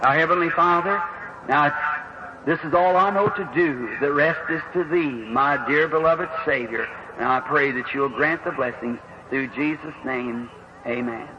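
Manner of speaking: closing prayer, slowing and softening toward amen. Real, not acted. Preacher closing his prayer before the healing line, reverent. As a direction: pray it reverently, voice sinking at the end.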